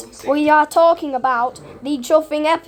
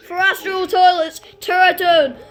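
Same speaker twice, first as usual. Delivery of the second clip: exasperated rant; 3 semitones higher than usual. Real, not acted. Fan demands a missing character's return.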